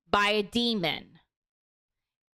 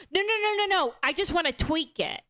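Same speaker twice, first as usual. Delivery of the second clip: much higher, hurried protest; eager refusal; 5 semitones higher, faster than usual. Retold or imitated. Bear telling customer service no, eager high refusal. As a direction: brush it off, keen to keep the wish.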